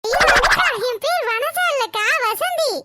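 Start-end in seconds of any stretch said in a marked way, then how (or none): 0.0-0.7 alarmed cry. Acted.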